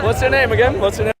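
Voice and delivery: normal talking voice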